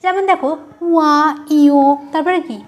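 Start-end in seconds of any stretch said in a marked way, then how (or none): 0.9-1.8 উয়া and ইয় sent through the nose; nasalised demonstration of উয়া and ইয়; nasal sounds. Shown as a demonstration. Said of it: "নাক দিয়ে বায়ু বেরিয়ে".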